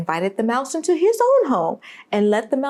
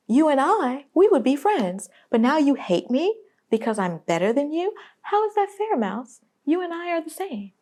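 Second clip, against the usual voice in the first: higher voice of the man in the poem; the man apologising; 6 semitones higher than usual. Retold or imitated. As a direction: play the man, pitched up high, apologising to the mouse. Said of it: "you hear that man say".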